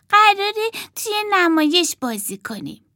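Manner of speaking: high, excited announcement; girl doll announcing the play, high and excited; thrilled repeat. Acted. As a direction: say it again with joy.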